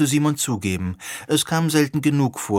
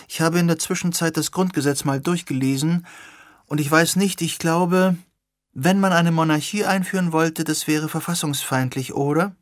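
put-on higher, eager young woman; lightly voiced young woman, keen and questioning; a hint of an earnest young activist; Sirona's voice; 5 semitones higher than usual.

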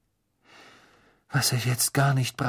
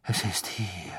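ominous whisper; 3 dB quieter than usual. Acted. Trelawney foretelling to Harry.

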